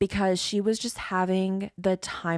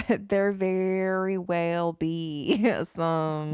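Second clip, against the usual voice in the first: Southern accent; much slower than usual. Real, not acted. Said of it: "I've not heard you talk like this".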